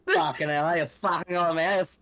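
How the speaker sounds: hammed-up sweary Australian accent; mock Australian swearing rant; thick Aussie accent. Shown as a demonstration. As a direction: put on a broad Aussie and curse freely. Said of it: "Give me that thick Aussie accent".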